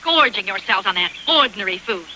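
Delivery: scolding. Acted. Manager catching girls eating fruit.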